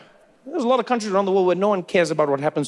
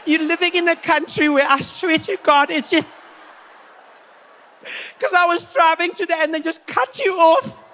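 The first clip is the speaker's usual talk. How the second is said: much higher, overwhelmed whine; fragile white woman; 8 semitones higher than usual. Retold or imitated. White women back in the day when things go wrong, high fragile whine. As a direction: sound like you're about to break.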